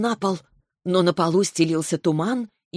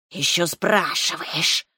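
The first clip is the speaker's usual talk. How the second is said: slow, displeased hissing snake; slow hypnotic serpent hiss; much slower than usual. Acted. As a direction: hiss it out, annoyed, slowly. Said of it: "прошипела змея недовольно".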